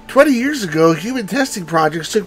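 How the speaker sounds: lightly put-on woman's reading voice; her character voice. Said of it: "I was trying to do her voice, like, a, a certain way".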